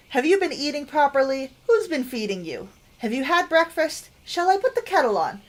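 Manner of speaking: lightly voiced doting nana, lively and eager; fussing grandmother. Game player voices Nana greeting a grandchild, affectionate fussing. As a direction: pile up the fussing questions, voice lifting.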